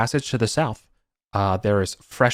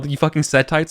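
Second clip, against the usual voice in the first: accusing sneer; 5 semitones higher than usual. Acted. GM voicing accusing NPC.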